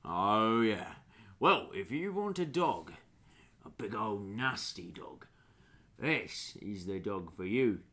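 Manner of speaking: lightly put-on ranger character; lightly voiced ranger. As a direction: play a mildly amused dog handler. GM plays the ranger.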